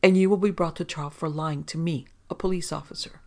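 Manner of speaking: lieutenant threatening the detective, mildly fierce; fiercely. Acted. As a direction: bite out the threat with some heat. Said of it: "He said fiercely".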